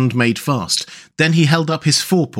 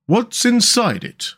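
high, drawn-out question; eagerly curious; 10 semitones higher, slower than usual. A narrator's reading. Mole eyeing the luncheon basket, eagerly curious. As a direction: ask it slowly, itching to know. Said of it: "wriggling with curiosity".

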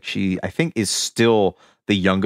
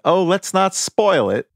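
put-on Southern accent; 8 semitones higher, slower than usual. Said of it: "her natural South Carolina accent".

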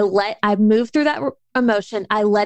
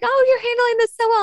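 mock praise; 12 semitones higher, faster than usual. Others praising her calmly.

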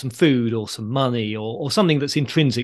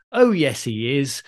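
pantomime catchphrase reply; slower than usual. Shown as a demonstration. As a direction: answer back in playful panto sing-song. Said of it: "you're referring to Christmas pantomime".

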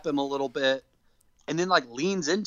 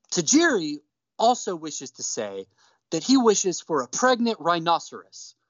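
deadpan translator; 3 semitones higher than usual. Retold or imitated. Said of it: "she looks at him and says".

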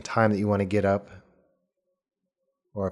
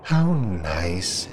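muffled voice. Acted. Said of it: "says a soft, muffled voice".

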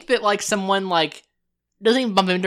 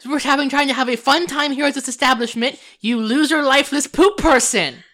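furious rant; 6 semitones higher, 5 dB louder than usual. Acted. Elf player has Desdemona yell at the Minotaur woman. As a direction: tear into the stranger who bumped her. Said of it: "She's like".

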